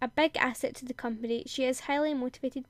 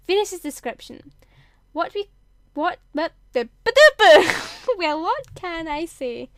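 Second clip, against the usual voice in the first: higher and louder through giggles; laughing fit; 4 semitones higher, 11 dB louder than usual. Real, not acted. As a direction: barely get words out for laughing. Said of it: "I'm just laughing".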